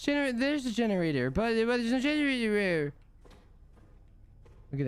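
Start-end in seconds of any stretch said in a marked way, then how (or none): 0.0-2.9 exasperated. Real, not acted. Generator missing again.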